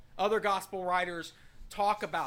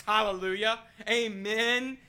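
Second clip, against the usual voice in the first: loud, raised-pitch cry of praise; exultant shout; 3 semitones higher, 6 dB louder than usual. Acted. Believer affirming Peter's confession, shouting at top of lungs. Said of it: "shout at the top of your lungs".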